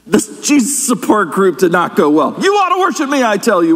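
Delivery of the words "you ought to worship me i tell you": mock yell that starts high and drops; imitated yell. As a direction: play a self-declared Christ demanding worship. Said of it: "one of the Christs yelled".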